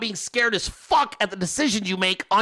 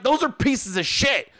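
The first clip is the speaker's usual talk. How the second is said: blunt retort at a normal pace, slightly raised pitch; retold blunt verdict; 4 semitones higher than usual. Husband judging wife's new bookshelves, blunt retold retort. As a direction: state it bluntly, mimicking an argument. Retold argument with wife, first take.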